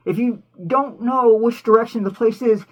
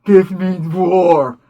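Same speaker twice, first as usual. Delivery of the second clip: slow Bugs declaration; 4 semitones lower, 5 dB louder, much slower than usual. Retold or imitated. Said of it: "And what does he say?".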